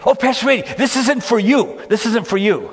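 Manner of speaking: imitating a startled boy, voice jumping high; high-pitched boy's protest. Boy with shotgun to visiting pastor, high-pitched protest.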